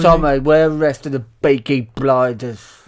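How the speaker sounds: mock Brummie. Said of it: "meeting Pricey".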